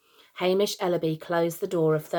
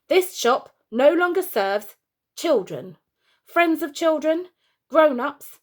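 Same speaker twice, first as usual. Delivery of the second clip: higher, louder barked list of bans; barking; 3 semitones higher, 3 dB louder than usual. Acted. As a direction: bark the shop rules like a cross shopkeeper. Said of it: "barking at it".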